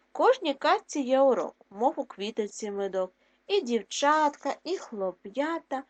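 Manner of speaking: put-on sing-song rhyme read to kids; rhyme read to children. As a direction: lilt the verse for children.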